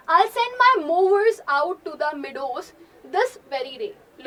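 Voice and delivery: loud, slow, defiant declaration; a hammed-up angry Natalia; angry claim. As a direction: throw the threat at him.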